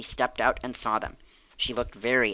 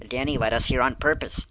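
a bit louder, realizing the trick; exclamation; 5 dB louder than usual. Acted. Jessie to the group, realizing Danny tricked them, exclaiming. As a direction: blurt out the discovery. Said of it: "Jesse exclaimed".

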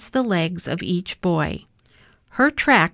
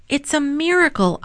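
smiling; 7 semitones higher than usual. A narrator's reading. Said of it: "Avi said with a smile".

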